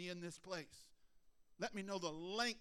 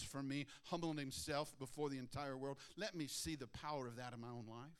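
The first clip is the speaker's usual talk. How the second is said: humble prayer. Shown as a demonstration. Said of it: "And you go".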